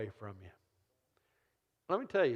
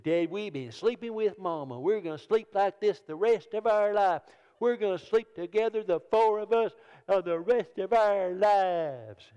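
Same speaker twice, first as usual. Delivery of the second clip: put-on high, loud insistent child; the boy digging in his heels; kid's voice; 6 semitones higher, 5 dB louder than usual. Son insisting on sleeping with Mama.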